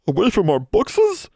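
slow, high elf whimper. A narrator's reading. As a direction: whimper it like a distressed little elf. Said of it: "Poe whimpered".

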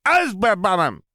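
put-on high, loud little boy squeal; high excited child; squealing toddler. A narrator's reading. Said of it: "Ben squealed at once".

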